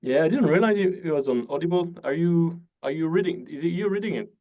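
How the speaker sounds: surprised. Real, not acted. Learns host reads audiobook.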